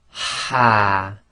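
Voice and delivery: ha pushed out hard from the middle of the throat; the strong Arabic ha; forceful ha. Shown as a demonstration. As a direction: breathe out forcefully on ha. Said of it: "the forceful ha".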